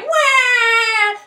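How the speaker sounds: put-on high loud baby cry; baby wail. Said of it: "The baby was always crying".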